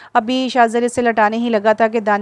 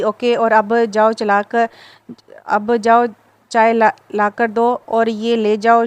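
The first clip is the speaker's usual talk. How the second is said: slow, firm and stern; slower than usual. Acted. Husband sternly orders his wife to fetch tea. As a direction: lay down the order slowly, no arguing. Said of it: "लहजे में सख्ती दर आई".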